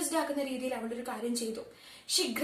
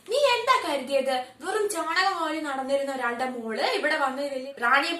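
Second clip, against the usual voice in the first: angry taunt; 5 dB louder than usual. Acted. Husband insulting wife's family.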